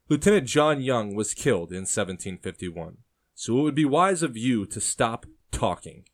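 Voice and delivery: loud, threatening warning; red-faced, warn him to shut up; angry. A narrator's reading. Uncle threatening the prisoner, loud anger. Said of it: "his face red with anger".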